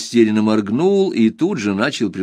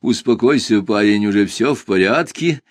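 soothing. Acted. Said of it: "примирительно улыбнулся я".

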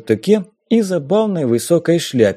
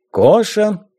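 Коша lifted high and set apart; stress on Коша; 8 semitones higher than usual. A narrator's reading. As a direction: lean hard on the name Коша. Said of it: "Это имя он особенно выделил голосом".

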